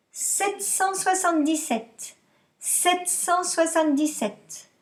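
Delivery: slow, careful dictation pace; dictating. Shown as a demonstration. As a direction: spell the number out slowly for the class. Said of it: "je vous dicte".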